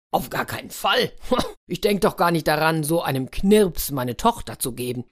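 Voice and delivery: indignant refusal. Acted. Ruler indignantly refuses the demand.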